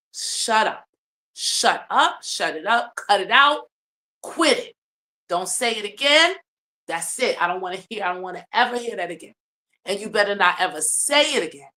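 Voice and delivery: mock yelling, in short emphatic bursts; retold outburst, punching each command; imitating screamed scolding. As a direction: act out an angry telling-off without fully screaming. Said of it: "Stan starts screaming".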